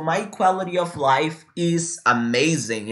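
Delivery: slow, steady repeat for copying; slow "quality of life". Shown as a demonstration. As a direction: say it again for them to copy.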